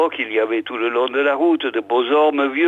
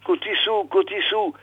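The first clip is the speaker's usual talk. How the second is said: plaintive, crying call; 6 semitones higher than usual. A narrator's reading. Poor Peyrounet calling the father, tearful and high. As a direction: whimper the name in a small high voice. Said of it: "pleurait la pauvre voix".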